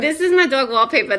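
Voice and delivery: quick take on a sitcom character; Janice from Friends. Shown as a demonstration. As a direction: rattle it off in a put-on character voice. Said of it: "a Janice from Friends".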